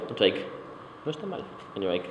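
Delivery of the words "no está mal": high, soft mock-grudging approval; imitated violin teacher. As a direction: imitate a teacher barely granting praise, high and quiet. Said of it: "much of that comes from my violin teacher".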